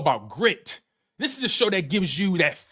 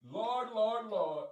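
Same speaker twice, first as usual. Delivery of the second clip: exhausted; 12 dB quieter, much slower than usual. Real, not acted. Exhausted after laughing fit.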